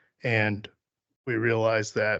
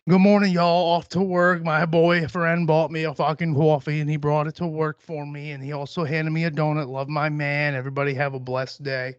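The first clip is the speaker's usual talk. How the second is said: chirpy posting aunt; 3 semitones higher than usual. Retold or imitated. Aunt posting to Facebook friends, mock cheery announcement. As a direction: imitate an aunt broadcasting her every move. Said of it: "my aunt's one of those people".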